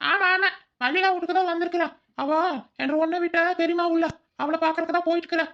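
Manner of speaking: high, loud put-on stranger voice; disguised voice. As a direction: pitch way up to hide your voice. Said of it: "நாம தான் மாறு வேஷத்துல".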